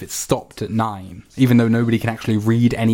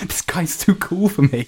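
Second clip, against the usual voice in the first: whispering; 6 semitones higher than usual. Acted. Aside about the guest.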